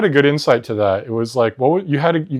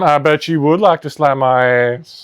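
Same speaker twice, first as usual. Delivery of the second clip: 1 sassy taunt; 4 semitones higher, 4 dB louder than usual. Pretend. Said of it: "a little condescending".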